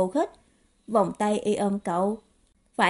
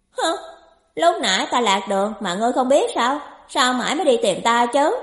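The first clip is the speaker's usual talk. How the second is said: sulky youth scolding, slightly raised voice; huffy complaint; 3 semitones higher, 4 dB louder than usual. Acted. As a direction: grumble indignantly after a huff. Hờn dỗi trách người đến muộn. (hờn dỗi trách móc)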